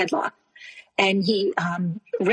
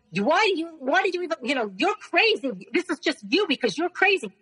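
retold angry outburst; 6 semitones higher than usual. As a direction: imitate the husband lashing out without real volume. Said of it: "he started screaming".

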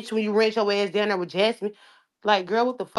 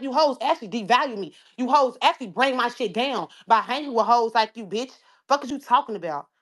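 angry; 5 semitones higher than usual. Real, not acted. Heated rant at rivals.

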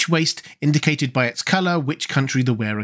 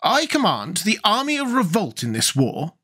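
sharp; 6 semitones higher than usual. A narrator's reading. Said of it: "with unnecessary sharpness".

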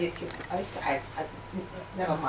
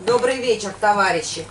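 Russian speech; faster than usual. Acted. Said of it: "Good evening, comrade".

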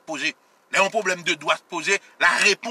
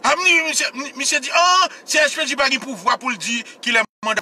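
mocking imitation; 6 semitones higher than usual. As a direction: parody his claim. Mocks what the other man said. (imite misye ak yon vwa wo k ap pase l nan rizib)

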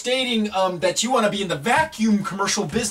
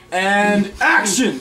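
director's call; 3 dB louder, much slower than usual. Acted. Director calls action loudly.

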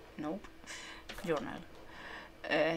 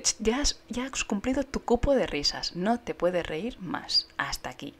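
a hint of a scolding moderator, loud; lightly voiced strict bot; stern bot voice; 3 semitones higher, 5 dB louder than usual. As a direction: scold them like a strict bouncer. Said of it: "Es en plan de".

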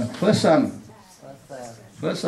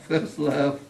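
First love said through a laugh, softer; 4 dB quieter than usual. Real, not acted. Teacher laughing at the first-love example with students.

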